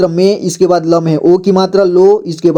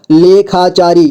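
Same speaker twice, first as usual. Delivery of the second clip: लेखाचारी in measured, separate syllables; slower than usual. Shown as a demonstration. Teacher breaking down लेखाचारी for learners, syllable by syllable. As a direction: sound out लेखाचारी piece by piece. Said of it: "जोड़ जोड़ करके".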